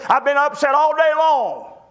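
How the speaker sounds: mock tearful apology; tearful mother. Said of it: "tears coming down her face".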